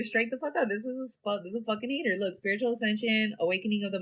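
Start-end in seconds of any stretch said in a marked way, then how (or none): 1.4-2.2 softer, settled restatement of "hater"; same line with "hater" falling soft; softer repeat. Real, not acted. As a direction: let "hater" drop, half to herself. Repeating her verdict, then softer.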